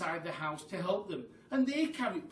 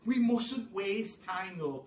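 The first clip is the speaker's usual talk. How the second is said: urgent cry; 3 semitones higher, 4 dB louder, slower than usual. Acted. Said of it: "cried Mugglewump".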